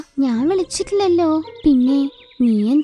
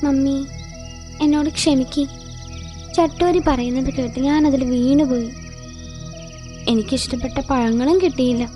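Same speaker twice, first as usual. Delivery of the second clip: subdued, sheepish apology to mummy; apologetic child. Acted. Boni says sorry to her mother, subdued and apologetic. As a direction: own up meekly.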